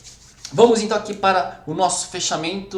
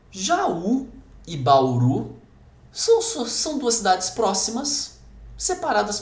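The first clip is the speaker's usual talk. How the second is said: slow dictation; 4 semitones higher, slower than usual. Shown as a demonstration. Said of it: "A questão era assim, eu jogo pra vocês".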